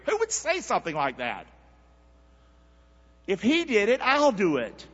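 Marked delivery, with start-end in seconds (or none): 3.3-4.9 high lead line to echo; preaching line. Shown as a demonstration. Preacher leading church in a refrain. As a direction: say it for them to repeat. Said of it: "Say that with me".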